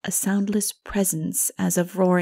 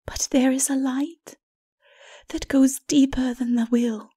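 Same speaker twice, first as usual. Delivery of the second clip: gentle wise woman; 6 semitones higher than usual. Acted. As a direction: speak of the light almost in a whisper.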